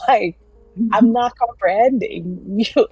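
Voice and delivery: mock entitled disbelief. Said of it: "She's just like".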